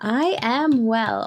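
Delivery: slow, creaky vocal fry. Real, not acted. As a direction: talk through a scratchy throat with fry. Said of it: "sorry for the vocal fry".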